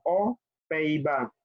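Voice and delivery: "O, Pays-Bas" with no z after O; silent X. Shown as a demonstration. Teacher contrasts consonant-initial country, pronounced without liaison. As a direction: keep "O" open, straight into "Pays-Bas". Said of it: "No suena la X".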